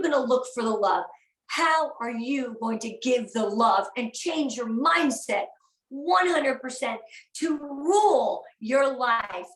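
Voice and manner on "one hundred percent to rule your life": fighting back tears mid-sentence; choked up. Real, not acted. Speaker moved to tears urging her team on, choked up. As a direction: voice catching with real emotion, slow. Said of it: "I don't know why I get so emotional".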